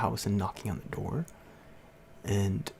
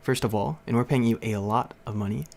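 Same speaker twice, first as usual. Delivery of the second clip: louder, scolding mom; mother chewing out the teacher, louder; retold angry telling-off, louder; going off; 5 dB louder than usual. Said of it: "she basically just went off on my teacher".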